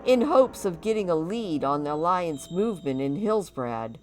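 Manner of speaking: hammy orc warrior voice. Acted. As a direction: boast like a proud orc. Voices Orcus telling his story.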